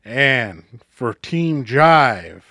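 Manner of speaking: slow drawn-out arena announcer; a hint of a hockey announcer. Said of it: "My hockey announcer voice is not very good".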